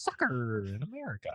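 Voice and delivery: overdone American accent, hammed-up; obnoxious American. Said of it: "the most obnoxious Am-, American way that you could say it".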